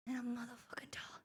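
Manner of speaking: fierce whispered boast. Acted. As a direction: whisper it like a secret threat.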